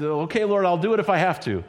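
a hint of grudging, lightly voiced through clenched teeth; grudging mutter. A grumbling believer yields to God, grudging. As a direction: say it like you resent having to. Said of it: "through clenched teeth and an angry heart".

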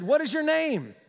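high, commanding question; demanding. Acted. Jesus confronts the demons in a man, acted demand. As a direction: put it as a firm demand. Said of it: "Jesus demanded".

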